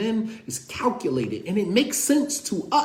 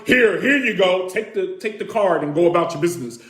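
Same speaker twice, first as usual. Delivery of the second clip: curt; 3 dB louder than usual. Retold or imitated. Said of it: "if I did it like that".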